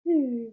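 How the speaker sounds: short hummed deflation sound; a balloon sagging as it empties; deflating balloon noise. Retold or imitated. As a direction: imitate a balloon losing its air. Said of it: "and then it just went".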